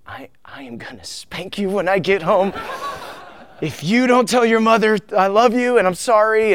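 mock-intense fatherly telling-off that climbs in pitch; intense angry dad. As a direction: scold a child over the phone, overdoing it. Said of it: "I wasn't that intense".

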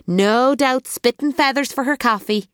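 high, lilting, teasing café owner; teasing sing-song Joe. A narrator's reading. Joe teases Elizabeth about needing coffee, lilting. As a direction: rib her cheerfully about her caffeine need. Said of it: "boomed the sing-song voice of Joe".

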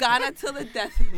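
loud laughing declaration; laughing shout. Real, not acted. Jollof rivalry, laughing shout.

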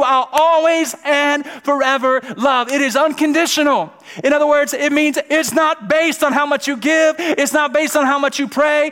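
high, loud, relentless preacher's crescendo; impassioned preaching. Real, not acted. Preacher proclaiming God's unconditional love, fervent high shout. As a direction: drive each phrase at full force, easing at the end.

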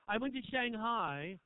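I went to Shanghai stretched slowly, word by word; slow storyteller build-up before rushing; drawn out. Shown as a demonstration. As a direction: linger on I went to Shanghai like a long story opener. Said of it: "I'm just gonna talk quickly through this".

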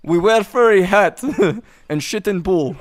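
laughing mock Russian accent. Playing Russian pool terrorists for friends, Russian accent. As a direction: put on a comic Russian accent. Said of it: "he actually can do a fucking Russian accent".

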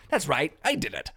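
a casual, offhand culprit's confession; just own it, shrug it off; mock confession. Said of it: "someone steps forward and goes".

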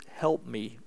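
low, soft, slowing plea; hushed plea to God; simple prayer. Acted. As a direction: pray it quietly and humbly. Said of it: "he just prays".

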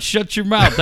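high mock yell at a crowd; mock heckling. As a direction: imitate telling off a whole crowd. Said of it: "telling everybody in the crowd".

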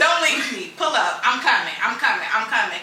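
laughing. Retold or imitated. Friend laughing as she retells rushing to help. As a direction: laugh through it as if rushing out the door.

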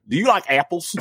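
a hint of a Southern accent, just playing. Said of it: "That was a good accent".

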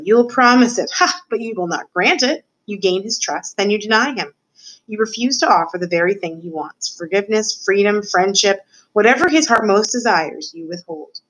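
lightly voiced rat lecturer, lively rise and fall; scheming rat mentor. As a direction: relish each cruel step of the lesson.

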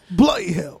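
low, slow mock British "bloody hell"; British accent. Mock British accent to show cursing sounds fine. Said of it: "say it with a British accent".

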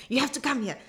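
urging "You have to come here" in a whisper; coaxing whisper. Retold or imitated. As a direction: whisper the plea like a secret. Repeats friend's urging, whispered.

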